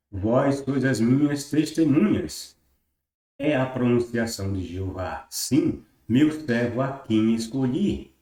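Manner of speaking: slow, deliberate reading of a verse; scripture read-aloud. Acted. Teacher reading Isaiah to viewers, formal scripture reading. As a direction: proclaim the quotation in measured phrases.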